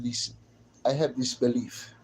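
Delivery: imitated Serbian woman; mock Serbian accent. Streamer imitating Serbian women to chat, mock Serbian accent. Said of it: "Well, Serbian women, too. They had that".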